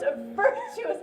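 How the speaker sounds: high laughing tease; a giggling high tease; teasing laugh. Acted. Nurse teasing, breaks off laughing.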